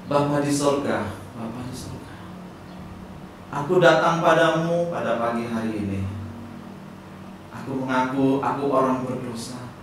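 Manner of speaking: gentle prayer voice. Acted. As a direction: pray it aloud for the kids to echo. Leads children in prayer.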